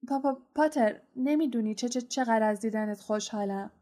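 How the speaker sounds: nervous stammering professor; stuttering. Acted. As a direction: stumble over each first syllable. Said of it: "با لکنت گفت". (لکنت عصبی استاد)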